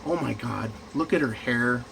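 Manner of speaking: mock gossip. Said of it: "start talking shit about you".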